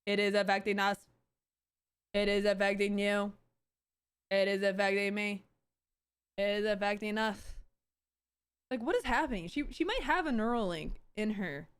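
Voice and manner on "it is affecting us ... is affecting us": flat, mechanical recitation like a malfunctioning android; robotic corporate drone. Retold or imitated. Mocking the CEO's video as a flat robotic drone. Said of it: "and she's just like".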